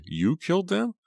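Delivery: very high, rising disbelief; mock his claim with a soaring question; scornful cry. A narrator's reading. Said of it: "she cried".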